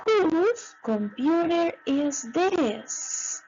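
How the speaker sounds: "Whose computer is this?" said slowly, word by word; slow model question. Shown as a demonstration. Teacher modelling the question slowly for students. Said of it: "So you say".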